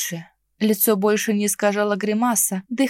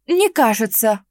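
воскликнуть; 4 dB louder than usual. Acted. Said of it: "воскликнула я".

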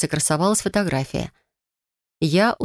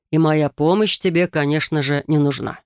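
sarcastic smirk. Acted. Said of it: "язвительно усмехнулся он".

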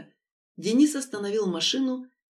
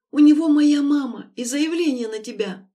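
much louder, urgent and higher; panicked warning; 5 semitones higher, 9 dB louder than usual. A narrator's reading. Lera warning Denis about the threats, panicked and loud. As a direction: blurt the danger out.

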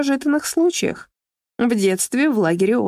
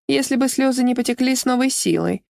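plain reading voice

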